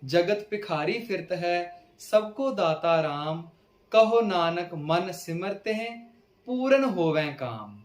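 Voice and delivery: slow, measured verse reading; scripture recitation. Acted. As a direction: recite each line slowly, stretching the words.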